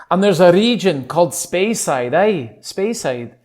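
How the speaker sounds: lightly put-on Scottish lilt; name the region in a Scottish brogue; casual Scottish-accented aside. Shown as a demonstration. Drops back into demonstrated Scottish accent.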